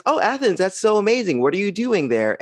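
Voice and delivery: high, gushing French lady; lightly voiced French lady, gushing over Athens; a hint of an excited French stranger. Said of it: "And she goes".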